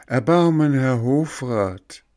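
rising desperate plea; pleading. A narrator's reading. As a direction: beg harder for mercy. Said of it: "weinte und flehte".

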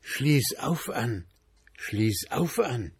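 mild eerie murmur; ghostly whisper. A narrator's reading. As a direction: draw it out slowly like a cellar ghost. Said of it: "Dort flüsterte das Flämmchen wieder".

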